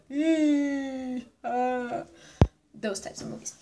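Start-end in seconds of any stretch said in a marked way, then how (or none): 0.1-2.0 drawn-out high "eee", then "ah"; imitated movie-watcher noises. Vlogger showing what thrillers make you go, mock squeal. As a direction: squeal a long eee, drop to ah. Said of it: "Movies that make you go".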